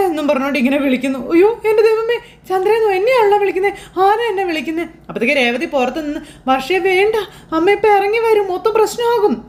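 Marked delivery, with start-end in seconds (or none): 1.3-4.8 high, tearful panic at hearing her name; terrified crying. Acted. Mother hears the ghost call her name, sobbing in terror. 6.5-9.4 anxious plea. Acted. Sister anxiously stopping the prank.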